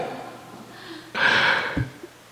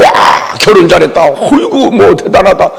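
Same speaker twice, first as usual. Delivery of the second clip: a squealing "와" with a laugh, lightly acted; mock delighted wife; 3 semitones higher than usual. Wife mocked praising her husband's cooking, laughing. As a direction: gush at the husband, half-teasing.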